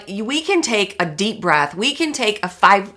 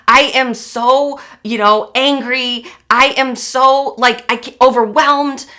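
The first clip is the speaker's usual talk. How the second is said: exasperated venting; 4 semitones higher, 4 dB louder than usual. Retold or imitated. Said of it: "for you to go like".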